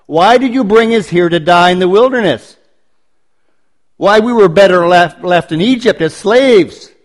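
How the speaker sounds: a mild accusing whine at Moses; a touch of bitter reproach toward Moses; accusatory grumbling Israelites. Retold or imitated. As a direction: voice the people's complaint, lightly accusing. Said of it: "accusatory questions or statements about God".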